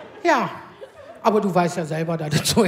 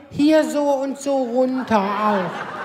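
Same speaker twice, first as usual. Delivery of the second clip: slow, drawn-out whine of a husband; lightly voiced demanding husband; husband's whiny request; 3 semitones lower, much slower than usual. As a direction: drag it out like a needy husband.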